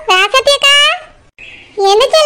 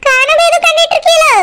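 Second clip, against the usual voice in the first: disbelief; 4 semitones higher than usual. Acted. Friend disbelieves duet on bike.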